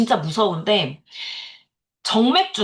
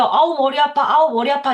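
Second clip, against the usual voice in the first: mock complaining; 4 semitones higher than usual. Shown as a demonstration. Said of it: "이거 한 열 번만 하세요".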